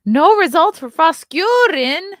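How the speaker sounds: loud, high shocked exclamation. Real, not acted. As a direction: cry it out in disbelief. Shocked reading search result.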